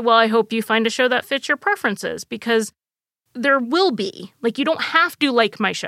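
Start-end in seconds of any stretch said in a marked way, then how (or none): none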